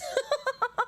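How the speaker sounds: high burst of giggles; quick high-pitched giggling; laugh. Real, not acted. Streamer amused by her own unopened cans, laughing.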